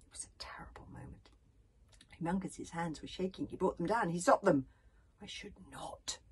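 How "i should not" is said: decision. A narrator's reading. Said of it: "said Humongous with decision".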